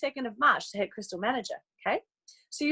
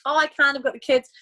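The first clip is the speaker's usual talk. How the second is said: louder, apologetic brush-off; voicing a busy friend; 3 semitones higher, 6 dB louder than usual. Friend turning down the invite, apologetic. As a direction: play the friend making excuses.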